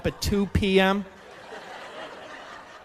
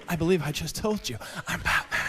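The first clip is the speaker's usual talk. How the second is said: Batman voice; 2 semitones lower, 4 dB quieter than usual. Pretend. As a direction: answer in a gruff Batman growl. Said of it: "I'll look in the mirror and I'll say".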